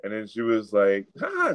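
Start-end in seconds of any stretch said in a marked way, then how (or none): 1.2-1.5 a short high mocking "ha ha"; mock laugh. The shopper laughing at the saleswoman, high mock laugh. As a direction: laugh at her, high and fake. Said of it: "She laughed at her".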